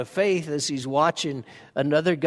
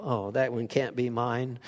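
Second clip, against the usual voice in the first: mock disowning; 3 semitones lower, 5 dB quieter than usual. Shown as a demonstration.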